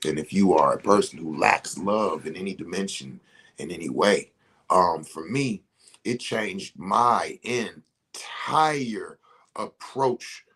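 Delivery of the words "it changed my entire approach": whisper. Real, not acted. Moved recalling his change.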